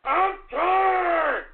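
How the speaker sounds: anguished cry. Acted. Repeated complaint ending in cry shout.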